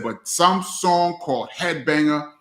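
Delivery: imitating Chris. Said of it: "He said".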